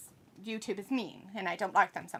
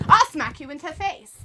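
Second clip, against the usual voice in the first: higher, louder play-acted threat; mock angry threat; 5 semitones higher, 8 dB louder than usual. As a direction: threaten like an affronted wrestler, hammed up. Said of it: "angry at each other".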